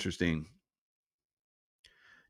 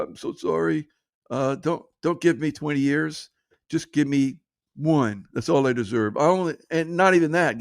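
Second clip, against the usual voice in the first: higher-pitched fake remorseful begging; imitation weepy bargaining; mock tearful pleading; 3 semitones higher than usual. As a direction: plead like a caught criminal, hammed up. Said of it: "And then have tears".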